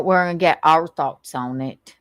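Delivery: mock Southern accent impression; lightly exaggerated Southern accent; mimicking the woman in the clip. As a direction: parrot it in her Southern twang. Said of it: "a pretty good impression".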